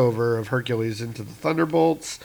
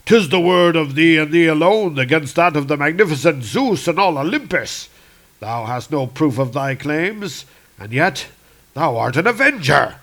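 a hint of a booming god, louder on the opening; lightly voiced mythic hero; Hercules; 3 dB louder than usual. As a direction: declaim it like a proud demigod. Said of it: "It's like".

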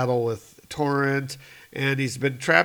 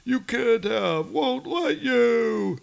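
Torrent's voice; 10 semitones higher, 4 dB louder, slower than usual. Acted. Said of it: "Torrent's like".

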